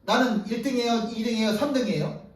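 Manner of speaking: lightly voiced jealous disciple demanding his rank; half-joking indignant questions; mock protest. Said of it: "다른 제자들이 항의하기 시작하는 거죠".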